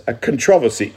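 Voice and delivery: "controversy" stressed on TROV; "controversy" said as cun-TROV-uh-see; demonstrated pronunciation. Shown as a demonstration. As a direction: lean on the second syllable of "controversy". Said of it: "not a controver".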